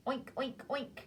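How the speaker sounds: lightly voiced oinking; a hint of pig. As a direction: snort out a piggy oink. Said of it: "think that it's the pig".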